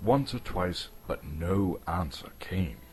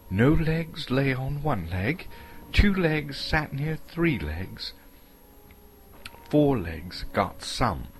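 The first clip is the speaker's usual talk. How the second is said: higher, slow hobbit riddle; Bilbo; 7 semitones higher, slower than usual. Acted. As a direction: rattle off the riddle deliberately.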